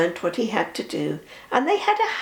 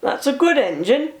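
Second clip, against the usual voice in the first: lightly kind praise; 5 semitones higher than usual. Acted. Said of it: "said the Fat Controller kindly".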